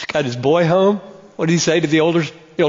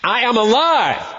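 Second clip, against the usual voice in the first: indignant Nicodemus; 4 semitones higher than usual. Pretend. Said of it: "he would say to me".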